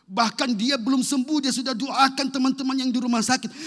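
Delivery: high, loud excited testimony; full-force preaching. Acted. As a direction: tell it at full pitch and volume. (kesaksian lantang menggebu-gebu)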